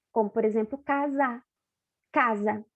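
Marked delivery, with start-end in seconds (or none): 2.1-2.7 "Casa" with the S voiced like a Z. Shown as a demonstration. Teacher to pupils, showing the S as Z. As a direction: say "Casa" buzzing the S as Z. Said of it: "O S tem som de Z".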